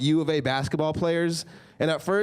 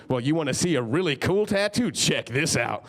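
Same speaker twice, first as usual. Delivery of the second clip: put-on drunk Willie bragging. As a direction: show off like a hammered biker. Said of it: "comes up to me and goes".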